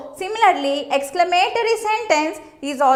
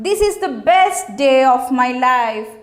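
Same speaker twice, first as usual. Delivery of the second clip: happy exclamation; 4 semitones lower than usual. Shown as a demonstration. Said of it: "How good it is".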